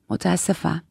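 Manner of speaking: low, softened apology; subdued, dropped-voice sorry; under the breath. A narrator's reading. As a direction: mumble a small apology. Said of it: "جید زیر لب گفت".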